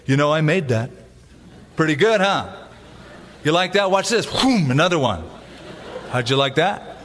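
lightly acted, self-satisfied boast; mock showing off. Imagined Jesus showing disciples his mountains, mock boastful. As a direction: show off a trick, fishing for admiration. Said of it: "never walked by a mountain with his disciples and say".

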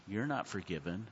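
hint of a devil murmuring in your ear; devil's whisper. Preacher voicing the devil's accusation to the class, soft and low. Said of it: "the devil whispering in your ear".

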